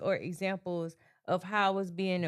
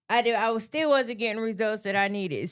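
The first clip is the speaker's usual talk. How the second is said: a touch louder and more insistent; firmer retold delivery; 2 semitones higher, 4 dB louder, faster than usual. Shown as a demonstration. Worker recounting trying it a firmer way, more insistent. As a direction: step up the firmness a notch. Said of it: "when I said it like this".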